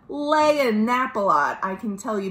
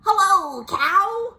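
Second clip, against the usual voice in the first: high, loud sing-out greeting; cheery high-pitched character hello; Duck; 10 semitones higher, 4 dB louder, slower than usual. Acted. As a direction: call out hello in a high storybook voice. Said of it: "said Duck".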